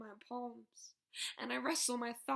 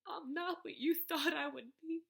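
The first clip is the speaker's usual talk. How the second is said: tearful; 3 semitones higher than usual. Acted. Emotional confession, crying heard.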